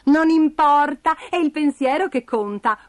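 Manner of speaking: lightly voiced kind reassurance; reassuring Bastoncello. A narrator's reading. Character reassures the spider.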